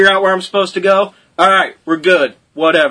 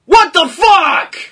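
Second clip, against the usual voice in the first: shocked outburst; 8 semitones higher, slower than usual. Retold or imitated. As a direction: recoil in disbelief. Reaction to the innkeeper.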